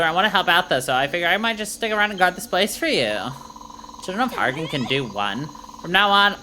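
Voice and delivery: lightly voiced bubbly valley girl; a hint of a chirpy valley girl. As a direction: play the hyped valley girl soldier, like, totally. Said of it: "uh, valet voice".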